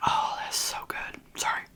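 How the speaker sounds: ordinary talk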